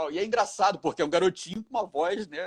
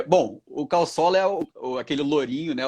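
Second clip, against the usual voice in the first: ordinary talk, nothing marked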